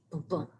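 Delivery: "Boom, boom" as a soft heartbeat, second beat stronger; heartbeat rhythm. Shown as a demonstration. Teacher demonstrating iambic rhythm to the class, soft heartbeat pulse. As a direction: beat out "Boom, boom" in an unstressed-then-stressed pulse. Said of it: "It sounds like a heartbeat".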